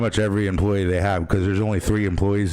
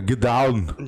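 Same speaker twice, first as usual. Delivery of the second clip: higher playful impression; put-on catchphrase voice; 4 semitones higher than usual. Host showing his other favourite voice, hammed-up command. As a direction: toss out a hammed-up movie-style command. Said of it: "it's either that or".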